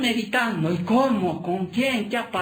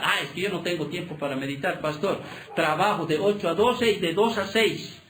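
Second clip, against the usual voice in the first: excuse-making believer; 4 semitones lower than usual. Retold or imitated. Mocking congregant's excuse to pastor.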